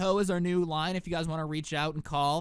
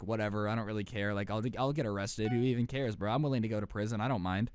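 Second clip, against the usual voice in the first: indifferent Grant; 8 semitones lower than usual. Retold or imitated. Grant brushing off arrest threats, low and indifferent. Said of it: "Grant's like".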